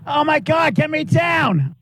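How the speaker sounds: pained, desperate pleading; begging to be let down; getting a leg cramp. Real, not acted. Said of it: "I'm getting a leg cramp".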